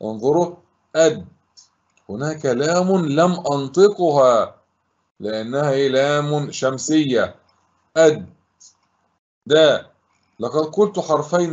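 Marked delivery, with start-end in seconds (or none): 1.0-1.3 one isolated, cut-off syllable. Shown as a demonstration. Teacher sounding out a word for pupils, syllable by syllable. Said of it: "فلننطق الكلمة صوتًا صوتًا". 8.0-9.9 isolated syllables with pauses between. Shown as a demonstration. Teacher splitting a word for pupils, syllable by syllable. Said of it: "فلننطق الكلمة صوتًا صوتًا".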